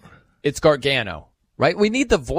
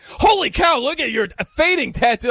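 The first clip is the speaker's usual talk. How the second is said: quoting a friend's shocked reaction, higher; a playful higher "holy cow" gasp; mock surprise; 8 semitones higher than usual. Retelling Iowa Sam's startled remark, mock surprise. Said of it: "Iowa Sam was like".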